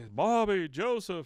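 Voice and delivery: high, loud call across the desert. Retold or imitated. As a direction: call the boys' names from far away. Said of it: "he's calling out to 'em".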